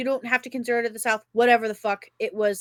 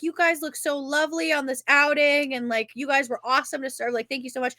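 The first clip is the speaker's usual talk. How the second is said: lightly voiced gushing waitress; mildly sweet waitress voice; over-the-top server; 4 semitones higher than usual. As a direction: lightly imitate a server laying on compliments. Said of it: "a different over the top".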